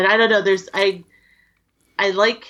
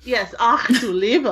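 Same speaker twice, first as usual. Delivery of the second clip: put-on German accent. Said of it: "He's the German one".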